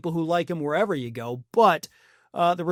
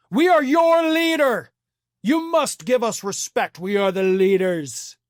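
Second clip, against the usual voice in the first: mock arrogant Trump; 3 semitones higher, 3 dB louder than usual. Mocking Trump's self-view.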